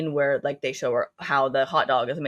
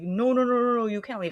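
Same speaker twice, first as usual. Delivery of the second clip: higher, run-together string of no's; mock frightened plea; 6 semitones higher than usual. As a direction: plead in mild imitated alarm. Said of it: "She's frightened in, like, her body".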